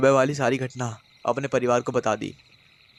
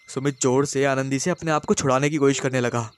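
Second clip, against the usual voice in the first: ordinary delivery, nothing marked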